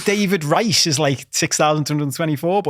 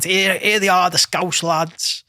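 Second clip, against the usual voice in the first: lightly voiced DJ announcing the lads, drawn out; hailing DJ; 3 semitones higher, slower than usual. DJ greeting the Scouse lads in a Tenerife bar, hailing.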